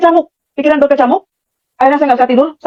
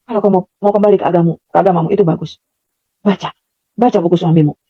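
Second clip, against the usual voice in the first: lowered, calm imitation of an unseen speaker; gentle mysterious voice; 6 semitones lower than usual. Unseen voice urges her to read husband's book, low and calm. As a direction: instruct calmly, pitch dropped.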